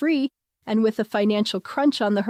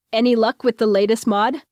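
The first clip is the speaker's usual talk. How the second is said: hopeful; 4 dB louder than usual. Acted.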